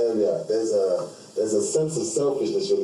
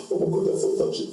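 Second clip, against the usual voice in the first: high breathy mock gush over something touching; mocking a gushy, emotional person; 7 semitones higher, faster than usual. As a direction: overdo the soppy reaction.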